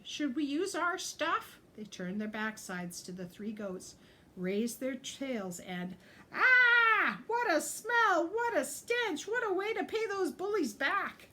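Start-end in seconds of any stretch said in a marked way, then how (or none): 0.0-1.6 high, loud squeaky question; squeal. A narrator's reading. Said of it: "and squealed". 6.3-11.3 gleeful outcry. A narrator's reading. Animals react to skunk spray.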